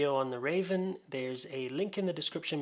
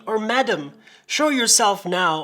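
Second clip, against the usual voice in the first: louder, emphatic demand in verse; crying out; 6 semitones higher, 12 dB louder than usual. A narrator's reading. Drunk demanding a stranger show themselves, crying out. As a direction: call out to someone hidden. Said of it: "I cried out".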